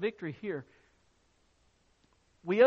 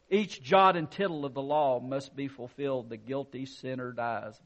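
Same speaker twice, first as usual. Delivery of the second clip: stern accuser; 5 semitones lower than usual. Acted. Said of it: "He spoke".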